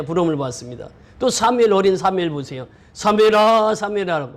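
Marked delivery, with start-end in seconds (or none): 2.9-4.3 long raised call, easing on the repeat. Retold or imitated. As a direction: imitate God calling young Samuel. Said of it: "하나님이 부르시는 거예요". (이름을 길게 부르는 말투)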